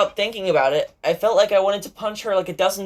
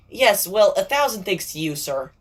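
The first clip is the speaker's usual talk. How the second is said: dry, mocking gratitude with a sneer on sir; sarcastic thanks; 2 semitones higher than usual. Voicing Sakura, sarcastic to the boasting friend. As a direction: thank him as if you mean the opposite. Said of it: "So sarcastic".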